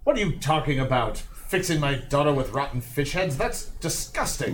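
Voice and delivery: mildly outraged incredulity; appalled father. Acted. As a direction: recoil at the offer, indignant. Angry father rebuffs goblin's offer.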